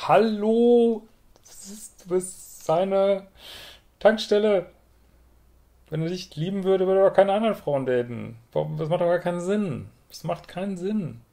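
high, incredulous "Hallo?" and rising outrage; exasperated disbelief. Real, not acted. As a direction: sounds like she cannot believe what she reads. Coach exasperated at listener's letter.

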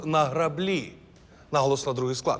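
«граблі» stressed on the second syllable, граблі́; correct stress. Shown as a demonstration. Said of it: "дуже правильний наголос".

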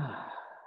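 soft, short exhaled sigh; relaxing sigh. Real, not acted. Meditation teacher releasing tension, soft sigh. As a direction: let out a quiet breath of release. Sighs while leading relaxation.

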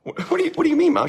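put-on high, surprised kid voice; child's puzzled question. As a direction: ask mom like a confused boy. Young Randy questions his mom.

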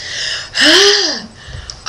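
high, drawn-out mock gasp; amazed gasp. Diver acting out awe at a hammerhead, amazed gasp. Reacting to the shark.

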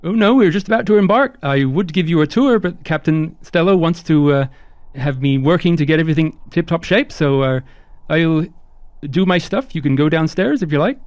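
high-pitched, apologetic crew member; chirpy high host voice; eager, polite ship hand Onion. Acted. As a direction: play a courteous, high-voiced deckhand, lilting upward.

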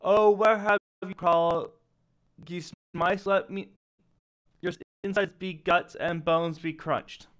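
big loud ogre boom. Acted. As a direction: bellow it like a giant ogre. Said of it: "a booming voice echoes out".

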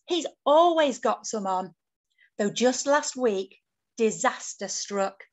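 put-on lively, lilting read-aloud for children; picture-book narration. A narrator's reading. Author reads picture book to children, lively storytelling. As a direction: tell it as a bedtime-book adventure.

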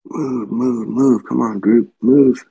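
loud urgent commands; shouting orders over battle. Real, not acted. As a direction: bark the orders to push forward. Urging units forward in battle.

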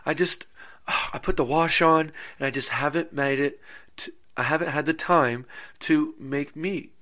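a hint of a fretful housewife; imitating the wife. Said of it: "she goes".

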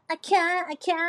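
"อาแค่ อาแค่" sung with each one accented; stress on อาแค่. Shown as a demonstration. Singer explains their trick, accented "อาแค่". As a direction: lean on "อาแค่" both times. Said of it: "เราจะเน้นคำว่า".

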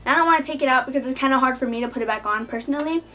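talking with a retainer in; slight lisp from a retainer. Real, not acted. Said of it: "I probably have a lisp a little bit".

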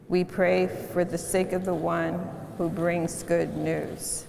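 solemn confession said together; prayer. Acted. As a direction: read it as a hushed unison prayer.

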